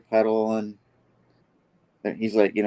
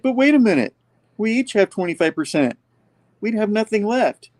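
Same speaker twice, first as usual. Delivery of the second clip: panicked villains; 11 semitones higher than usual. Retold or imitated. Villains realizing they'll have nothing left, high and panicked. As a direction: squeal in alarm at the deal.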